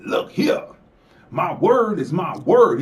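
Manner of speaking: lightly mocking a minstrel-style voice; mock blackface voice. Host mocks a politician's fake folksy voice, lightly put on. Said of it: "that's me imitating a white man in blackface".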